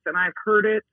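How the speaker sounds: ordinary talk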